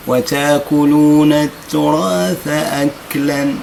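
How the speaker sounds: وتاكلون التراث أكلا chanted slowly; slow recitation. Shown as a demonstration. Teacher reciting the verse, slow chant. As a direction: intone it like Quran recitation. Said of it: "حروف الهمز".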